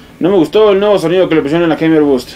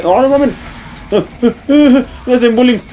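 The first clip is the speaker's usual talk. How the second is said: high-pitched helpless complaint; whiny protest; 8 semitones higher than usual. Real, not acted. Gamer being bullied by enemies, whiny protest. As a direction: wail in comic distress.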